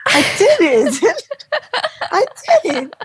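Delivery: laughing with joy. Real, not acted. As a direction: burst into happy laughter at the triumph. Joyful retelling of triumph.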